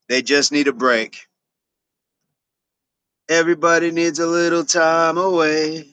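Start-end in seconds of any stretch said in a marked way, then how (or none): 3.3-5.9 lightly voiced kids, a bit higher; a hint of playful children; kids' voice. Reading a viewer's kids' line in a light kid voice. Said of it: "my kids would say".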